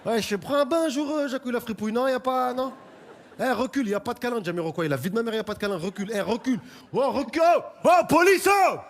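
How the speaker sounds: high loud yelling at the police; shouting rioter. Acted. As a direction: taunt the cops at full volume.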